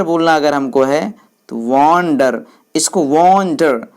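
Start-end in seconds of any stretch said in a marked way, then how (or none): 1.6-2.4 वंडर with a long drawn-out वं and a quick डर; teacher showing stress on the वं of वंडर; stressed first syllable. Shown as a demonstration. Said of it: "इसको जल्दी बोलते हैं, इसको देर तक बोलते हैं". 3.0-3.9 वंडर said slowly, the वं held long; stressed first syllable. Shown as a demonstration. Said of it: "इसको देर तक बोलते हैं".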